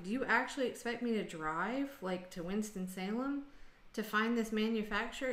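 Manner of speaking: mildly snarky incredulous question; a touch of sarcasm, understated; sarcastic. Retold or imitated. Caller at the end of her rope to phone agent, mildly sarcastic. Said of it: "really sarcastic".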